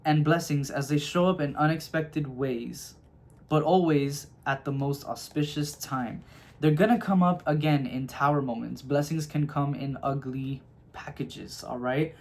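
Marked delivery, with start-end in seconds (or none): 0.0-6.2 slow reread. Shown as a demonstration. Reader repeating the card's words to Gemini viewers, slowly. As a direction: reread the line slowly, leaning on each phrase. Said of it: "it says".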